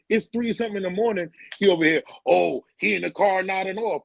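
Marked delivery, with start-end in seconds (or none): 2.3-4.0 mock James. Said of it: "James trying to get at me".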